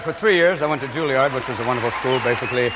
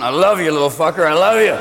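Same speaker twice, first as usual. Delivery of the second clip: put-on affectionate drunk friend; 3 semitones lower, 3 dB louder than usual. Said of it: "You've got a friend in a headlock".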